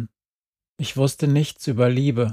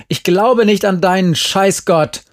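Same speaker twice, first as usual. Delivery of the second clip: raised, loud, cursing retort; angry shout; 6 semitones higher, 5 dB louder than usual. A narrator's reading. Jerry rejects her friend's God, angry shout. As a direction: throw it back at full temper. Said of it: "schrie sie".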